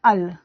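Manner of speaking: अल said as a retroflex flapped l; demo sound al. Shown as a demonstration. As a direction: say अल with the tongue curled back and flapped. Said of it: "इसका उच्चारण अल की तरह होता है".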